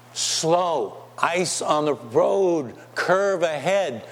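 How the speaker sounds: slow, deliberate sign reading; reading a warning sign. Acted. Preacher reads God's road warning sign aloud, slowly. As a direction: spell out each warning slowly.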